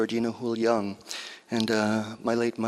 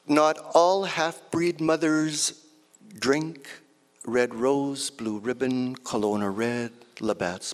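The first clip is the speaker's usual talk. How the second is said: poem reading. Acted. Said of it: "this next piece is called".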